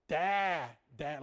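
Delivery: bleating "Dad, dad" like a goat. Retold or imitated. Preacher imitating a goat for the congregation, bleating. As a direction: imitate a goat's cry. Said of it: "a goat says".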